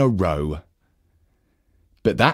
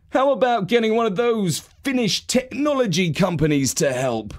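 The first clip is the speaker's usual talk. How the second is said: higher, light uncle voice; Uncle Christmas; 9 semitones higher than usual. A narrator's reading. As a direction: suggest it like an easygoing uncle. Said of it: "he asked".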